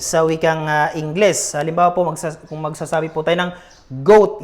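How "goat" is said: goat with a plain English hard G; wrong English g. Shown as a demonstration. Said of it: "hindi po ganon". (maling bigkas: Ingles na G sa goat)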